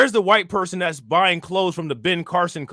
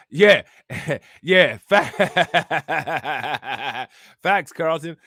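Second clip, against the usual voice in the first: laughing; 2 semitones lower, 3 dB louder, much slower than usual. Real, not acted. Reacting to chat, laughing.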